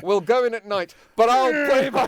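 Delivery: hammy British officer; brash commando officer; mock officer voice. Churchill voiced.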